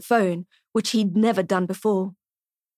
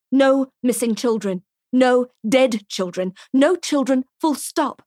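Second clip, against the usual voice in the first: firm anger; 3 semitones higher than usual. Acted. Laying down her rules.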